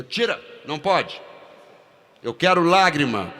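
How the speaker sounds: strict director yelling at the actor; demanding shout. Retold or imitated. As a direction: shout the order over him. Director insists again.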